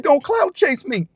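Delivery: high, slow drawn-out voice of the woman; imitated accusation. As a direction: stretch it out scornfully at the camera. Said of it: "She's like".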